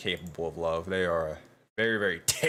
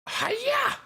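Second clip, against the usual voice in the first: playful hiya; 3 dB louder than usual. Pretend. Host clicks something, playful cry.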